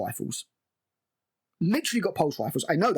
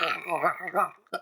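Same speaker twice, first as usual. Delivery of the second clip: imitated choking noises. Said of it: "She's like".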